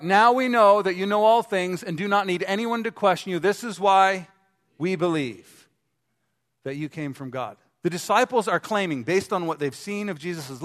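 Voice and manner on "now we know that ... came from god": louder second reading of the verse; louder, fuller read. Shown as a demonstration. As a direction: reread it with more force and conviction. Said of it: "Let's go back".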